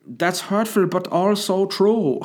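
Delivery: high, slow mock voice; squeaky hurt reply; high pitched Fritzl voice. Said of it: "he'll probably out his window go".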